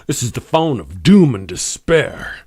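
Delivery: slow, hammed-up voice of doom; mock ominous. Host to his audience about a phone, in a mock ominous slow voice. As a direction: announce it like a mock horror trailer.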